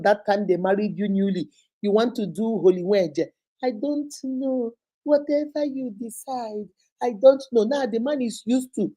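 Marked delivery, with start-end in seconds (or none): 3.6-7.6 slow, higher, deferring; a demure bride deferring to husband; meek new wife. Retold or imitated. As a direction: shrug it off sweetly and slowly.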